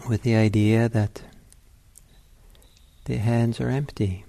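unhurried meditation guidance with long pauses; guided meditation. Real, not acted. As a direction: ease them into the sitting, leaving space between phrases.

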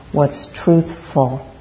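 truthful said slowly, weight on the ful; truthful, slow and deliberate, second syllable emphasized; stress on FUL. Real, not acted. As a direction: draw out truthful as two parts, truth-FUL. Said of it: "I want to emphasize the word full".

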